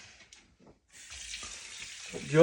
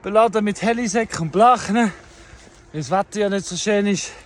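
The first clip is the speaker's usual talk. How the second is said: hiking uphill, slightly breathless; while running. Real, not acted. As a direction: talk on the move. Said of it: "Ich laufe grad zum ersten Mal".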